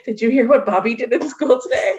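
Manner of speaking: mock teen on the phone; teenage girl gossip. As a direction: share school gossip like a teen. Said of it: "like, teenage girls".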